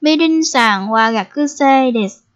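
slow, careful first take of "Mirin-san wa gakusei desu"; teacher's slowed demo of "Mirin-san wa gakusei desu"; slow model sentence. Shown as a demonstration. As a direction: spell out each syllable of "Mirin-san wa gakusei desu" for learners. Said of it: "Bây giờ chúng ta sẽ giới thiệu về chị Mỹ Linh nha".

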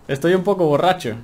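laughing at being tipsy. Real, not acted. Player laughs at his drunk character, giggling. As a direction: chuckle through the words. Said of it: "Le ha venido la borrachera".

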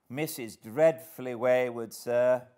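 high, projected warning; calling out. A narrator's reading. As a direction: call out to someone at a distance. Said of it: "I called out".

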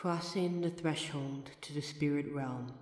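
soft, hushed spell-casting chant; hushed séance chant with a measured rhyming cadence; quiet ritual incantation. Acted. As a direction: call the spirit in low and quiet, like a rite. Performs a ritual summoning incantation.

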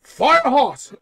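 high, slow, grunting caveman marvelling at fire. Acted. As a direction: ham up a dim caveman burning himself.

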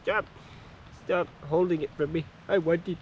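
lightly acted indignant demand; mock mad pet. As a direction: voice a goat's little tantrum. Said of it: "he's getting mad. He's like".

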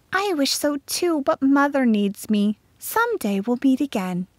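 put-on high, gentle girl's voice; regretful girl. A narrator's reading. Florette must stay with Mother, tender and regretful. Florette answers her parting friend.

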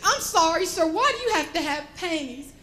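high-pitched, baffled polite question; imitating an embarrassed clerk; uncomfortable saleslady. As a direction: ask it in flustered exasperation. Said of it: "She was very uncomfortable".

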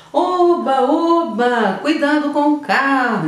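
high, loud cheer and then a warning shout; exclaimed warning. Shown as a demonstration. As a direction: call it out like a real alarm. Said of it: "você tá gritando". (exclamação alegre e grito de alerta)

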